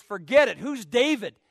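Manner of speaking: loud brush-off, Nabal snapping; sudden loud dismissive retort; mock shout. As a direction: bark out the refusal. Nabal refusing David.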